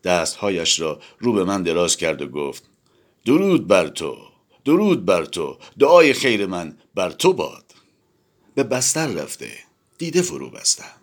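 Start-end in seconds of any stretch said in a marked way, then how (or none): 3.3-7.7 louder, beaming greeting; joyful blessing. Acted. Zorba joyfully blesses the narrator, louder. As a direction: call out the blessing with open arms.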